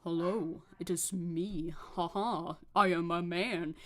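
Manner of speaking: lightly voiced parody of a man; silly low man voice. Shown as a demonstration. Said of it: "I don't go lower a lot because that sounds silly".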